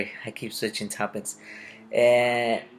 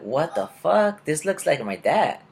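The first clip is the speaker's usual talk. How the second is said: high, slow gasp of disbelief; half-laughing what the fuck, higher and slow; stunned disbelief; 5 semitones higher, slower than usual. Retold or imitated. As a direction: drag out the shock as you see him. Sees man resembling dad.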